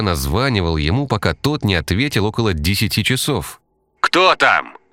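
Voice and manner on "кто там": loud, higher angry bark; furious bark. Acted. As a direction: snap it out in fury. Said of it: "рявкнул разъярённый патологоанатом".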